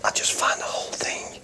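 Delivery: soft hoarse whisper, no voice left; voiceless and worn out; knackered voice. Real, not acted. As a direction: confide through a blown-out voice. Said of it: "his voice".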